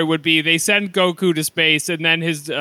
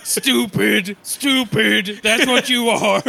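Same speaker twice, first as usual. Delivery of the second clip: mock self-scolding; 4 semitones higher, slower than usual.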